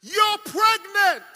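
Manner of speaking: slow, high, loud verdict; emphatic announcement. Acted. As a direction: declare "pregnant" slowly as the punch line. Doctor's verdict acted as punch line.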